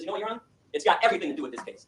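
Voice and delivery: firm, pointed comeback; attorney's defiant retort. Retold or imitated. Attorney answers the judge, defiant and firm. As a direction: turn it back on the judge. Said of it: "he turns and he says".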